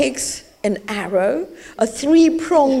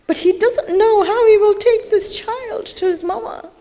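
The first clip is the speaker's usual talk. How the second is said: choked up; 7 semitones higher than usual. Real, not acted. Preacher narrates the father's grief.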